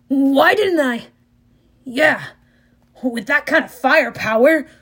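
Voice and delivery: lightly dazed war god. A narrator's reading. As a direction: wonder aloud as if hearing another voice. Ares in a trance.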